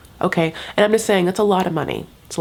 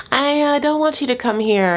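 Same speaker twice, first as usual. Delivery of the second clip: higher-pitched, hesitant mock excuse; stalling girlfriend; 5 semitones higher than usual. Girlfriend putting off his visit, imitated reluctant stalling.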